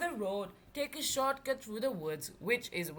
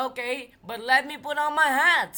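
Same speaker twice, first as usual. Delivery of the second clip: fast, loud and higher; hurried; 4 semitones higher, 8 dB louder, faster than usual. Acted. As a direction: rush it out. Driver agrees hastily.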